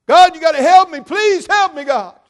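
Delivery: high, loud begging cry; desperate plea. Acted. Hanging man cries loudly up to God. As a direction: beg God at the top of your lungs.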